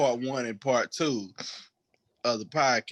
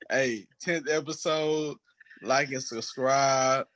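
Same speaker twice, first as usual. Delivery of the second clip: slow words around hiccups; hiccuping sign-off; 4 semitones higher, slower than usual. Real, not acted. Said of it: "I keep hiccuping".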